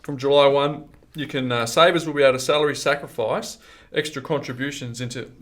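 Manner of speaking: hiccuping through the words; talking with hiccups. Real, not acted. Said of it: "excuse me, I've got the hiccups".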